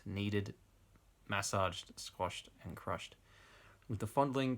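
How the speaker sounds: measured read-aloud narration; story narration. A narrator's reading. Reading bad erotic fiction to an audience, story narration. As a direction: narrate the passage like an audiobook. Reads novel extract aloud.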